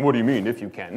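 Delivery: 'What do you mean, if you can?' as a stern, reproachful challenge; the wrong reading. Shown as a demonstration. Preacher shows the wrong way to read Jesus, reproachful. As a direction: read it as a rebuke, not a tease. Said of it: "don't read that like Jesus is saying".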